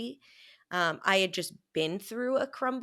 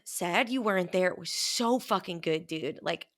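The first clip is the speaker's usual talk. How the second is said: ordinary talk, nothing marked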